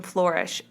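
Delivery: flourish said as FLOR-ish; flourish, first syllable rhyming with floor; odd pronunciation. Real, not acted. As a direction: say flourish with an "or" vowel. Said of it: "I said that really weird".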